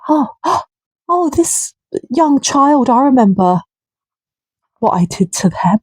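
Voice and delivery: lightly voiced sneering predator recalling his crime; mock perpetrator. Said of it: "is gonna read this and say".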